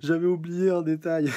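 loud, high dramatic cry; booming dramatic reveal; dramatic outburst. Acted. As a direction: shout the realization. Reads dramatic manga line.

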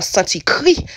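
"sentir cuit" said the Haitian way, French-style vowels; Haitian Creole phrase. Shown as a demonstration. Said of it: "That's how the Haitians say it".

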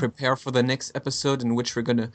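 booming wrestler boast. Acted. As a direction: hype it up like a pro wrestler. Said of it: "that was my, uh, wrestler voice".

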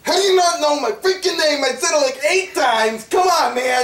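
put-on exasperated outburst. Interviewer berates the guest.

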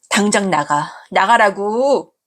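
slow, heavy, falling 나가라고; 나가라고 said slow and firm, falling at the end; firm order. Acted. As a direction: lay down 나가라고 slowly and coldly. Daughter ordering mother out.

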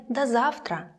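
"До завтра" said "da zaftra". Shown as a demonstration. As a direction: clear "da" in "До завтра". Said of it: "pronounced like да".

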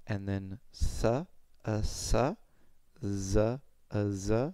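"s, a, s" and "z, a, z" with only the tongue tip moving; tongue-tip drill. Shown as a demonstration. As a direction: hiss "s" then buzz "z" in slow drill syllables. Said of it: "for S and Z".

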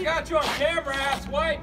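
shouting insults, loud and harsh; angry yelling. Real, not acted. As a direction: yell it at him furiously. Angry argument in the street.

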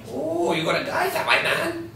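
put-on high, taunting Asian accent; thick Asian accent. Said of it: "speaks with a loud, thick Asian accent".

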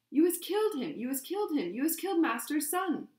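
frantic high, loud elf voice; Winky shrieking. A narrator's reading. House-elf thinks her master's son is killed, frantic shriek. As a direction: wail the accusation at a high pitch. Distraught elf accuses the wizards.

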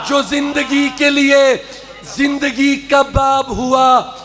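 slow, called-out verse; fervent recitation. Acted. Poet reciting to the gathering, fervent. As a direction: declaim the lines to the crowd.

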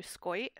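"skoit" for skirt, er turned to oi; old New Orleans vowel. Retold or imitated. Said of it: "she was talking about her mother".

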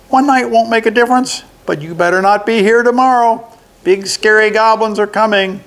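high goblin warning, slowing at the end; little goblin voice. A narrator's reading. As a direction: threaten him in a high goblin voice.

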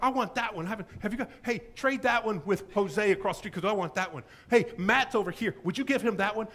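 grab for the book you want; eager prisoners. Retold or imitated. Prisoners grabbing books through bars.

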